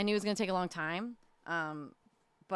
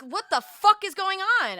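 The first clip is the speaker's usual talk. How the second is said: much higher and louder retold shock; shocked disbelief; 10 semitones higher, 7 dB louder than usual. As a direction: blurt it out stunned.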